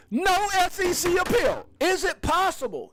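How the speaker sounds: crowd-pumping announcer; excited announcement. Real, not acted. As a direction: shout the headline. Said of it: "I got a little quote for you".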